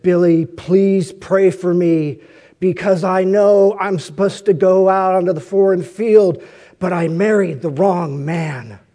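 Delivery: loud, deliberate plea, imitating a woman's firm sadness; retold firm, sorrowful plea, weighting the words; firm but sad. Woman asking the preacher for prayer, firm but sad. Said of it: "in very firm but sad tone".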